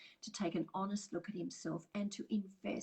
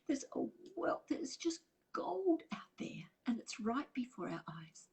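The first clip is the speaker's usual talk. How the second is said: teary; 6 semitones higher than usual. Real, not acted. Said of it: "Sorry, I'm getting teary".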